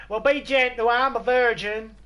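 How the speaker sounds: put-on high, loud girlish bride. Bride pleading with her husband on the wedding night, high and loud. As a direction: squeak it out like a shy new bride. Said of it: "And she's like".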